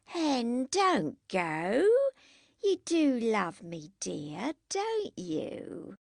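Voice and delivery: tipsy wheedling, pitch swooping up at the end; drunk pleading. A narrator's reading. Drunken Jackie begs Henry to stay, tipsy pleading.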